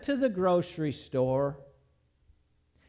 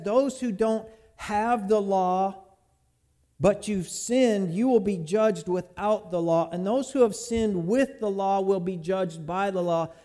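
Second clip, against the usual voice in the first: slow scripture reading. Real, not acted. Preacher quoting Romans.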